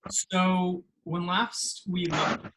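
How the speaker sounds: slow dramatic recap; storyteller narration. Acted. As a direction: open the scene like a storyteller. Game master opens the scene.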